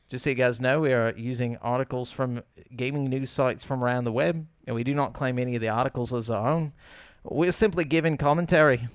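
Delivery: slipping lightly into British or Australian; accidental hint of a British accent; British slip. Real, not acted. Host reading the news disclaimer, slipping into British. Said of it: "I just went British and said articles".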